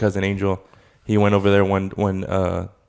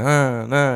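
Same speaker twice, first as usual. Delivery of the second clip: higher, lilting "Uh, uh" as if asking; mock questioning "Uh, uh"; imitated questioning lilt; 5 semitones higher than usual. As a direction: mimic the sing-song question tune on "Uh, uh". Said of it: "they talk like that".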